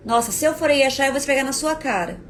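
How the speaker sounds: a touch of menace, hammed lightly; mock threatening snap. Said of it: "Substitua a criança por um adulto".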